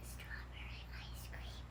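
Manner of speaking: hushed, voiceless murmur; whispering. Real, not acted. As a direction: whisper it as a secret treat. Child names the wanted dessert.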